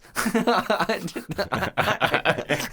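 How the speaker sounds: high mock-maniac laughter; Chucky's cackle. Chucky mocking Tiffany, imitated maniacal cackle. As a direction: cackle cruelly, hammed up. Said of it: "when Chucky's just coming".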